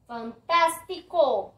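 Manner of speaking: Fantástico slowly, "tás" punched; stress on TAS. Shown as a demonstration. Teacher showing the tonic syllable, Fantástico slow with "tás" stressed. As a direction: break up Fantástico and hit "tás". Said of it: "tónica es tas".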